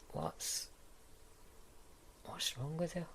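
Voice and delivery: high, baffled question; genuinely can't believe it; incredulous. Acted. Baffled, pitch jumps high.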